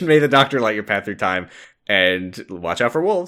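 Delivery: prayer. Acted. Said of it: "please say the Doctor's Prayer".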